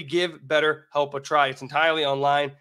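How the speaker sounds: ordinary talk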